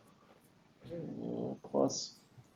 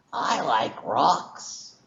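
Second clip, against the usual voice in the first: slow, simple rock creature; much slower than usual. Acted. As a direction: drawl it like a dim rock creature. GM voices rock creature reply.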